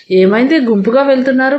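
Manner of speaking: alarmed. Acted. Abhi asking the family why they are rushing, mildly alarmed. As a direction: ask in a mild rush of worry. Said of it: "కంగారుగా అన్నాడు".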